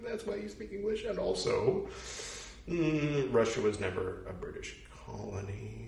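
a lightly voiced high explaining voice; imagined patient explainer. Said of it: "like, say".

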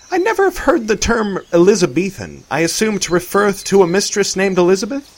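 a hint of a jovial old-fashioned man; lightly voiced Arthur. A narrator's reading.

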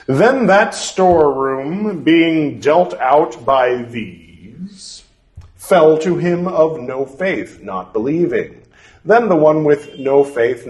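measured, deliberate scripture reading; formal reading aloud. Acted. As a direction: read it like an old formal text. Reads scripture text aloud.

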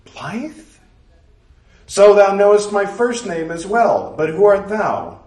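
a proud, puzzled maiden from another age; Blythe, archaic young woman. Acted. Blythe voiced in archaic speech.

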